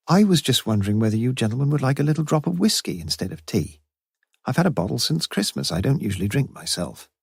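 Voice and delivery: lightly voiced older woman; Mrs Jarman. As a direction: offer the whiskey a little shyly.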